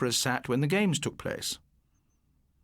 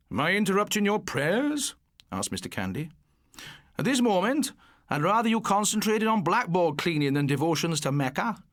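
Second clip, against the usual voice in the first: sarcastic teacher; 5 semitones higher than usual. Acted. Sarcastic teacher scolding pupil.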